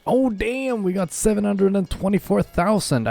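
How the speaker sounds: excited surprise. Real, not acted. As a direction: pitch jumps high in delight. Surprised by a big payout.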